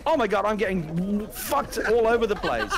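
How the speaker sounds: slow laughing groan of defeat. Real, not acted. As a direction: laugh through the frustration. Getting beaten in the game.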